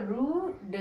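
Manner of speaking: slow "रूड" with long oo; sounded out. Shown as a demonstration. Teacher applies the rule for learners, sounded out "रूड". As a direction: hold "रू", then d, final e silent. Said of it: "ई को नहीं पढ़ेंगे last में".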